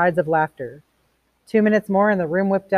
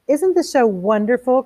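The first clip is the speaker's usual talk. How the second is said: high, slow, delighted wife; Mildred crying out to her guests in delight; excited cry; 7 semitones higher, 5 dB louder than usual. A narrator's reading. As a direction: gush over the TV show, higher and louder. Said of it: "cried Mildred".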